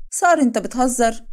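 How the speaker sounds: high, loud, slowed outrage; are you kidding me, drawn out high; indignant disbelief. Acted. Wife reacting to her husband's joke, high indignant disbelief.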